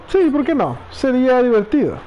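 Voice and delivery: lightly voiced cheerful Tifa; voicing Tifa. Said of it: "Y dice Tifa".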